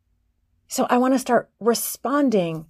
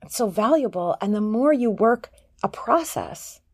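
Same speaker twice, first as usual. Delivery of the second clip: usual speaking voice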